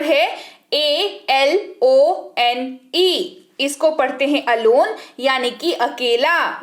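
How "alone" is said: alone with A as a short "uh"; pronunciation demo. Shown as a demonstration. Teacher showing learners how A sounds, pronunciation demo of alone. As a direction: say alone as "uh-LOHN". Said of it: "ए का उच्चारण अ के तौर पर".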